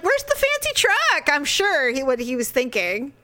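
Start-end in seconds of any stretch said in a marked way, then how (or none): 0.0-1.3 mock friend. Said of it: "He's like".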